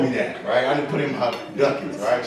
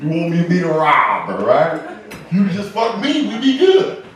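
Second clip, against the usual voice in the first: mock rant; 3 semitones higher, 5 dB louder than usual. He rants at girlfriend.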